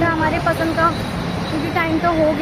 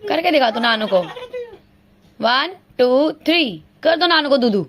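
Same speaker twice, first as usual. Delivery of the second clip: put-on baby talk; 2 semitones lower than usual. Baby talk to a little child.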